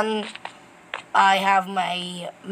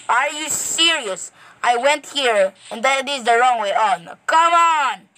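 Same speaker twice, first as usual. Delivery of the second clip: getting angry; 3 semitones higher than usual. Real, not acted. Gamer lost on the way to the village, getting angry. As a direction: vent frustration at the wrong turn. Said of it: "I'm getting angry".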